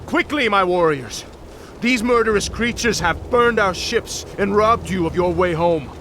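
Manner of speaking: rallying battle cry. Acted. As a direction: rouse the warriors to fight.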